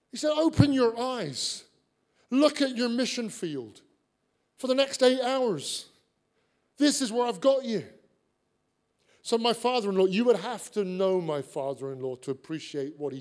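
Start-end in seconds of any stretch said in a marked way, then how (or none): 0.3-7.9 voice of God. Retold or imitated. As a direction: speak as the Spirit giving a firm call. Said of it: "the Holy Spirit spoke to him and said".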